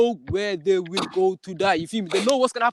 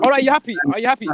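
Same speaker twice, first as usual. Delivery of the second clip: louder, higher taunt; mocking challenge; 3 semitones higher, 6 dB louder, faster than usual. Real, not acted. Debater taunting his rival over comments, mocking and loud. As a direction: goad him, sarcastic and loud.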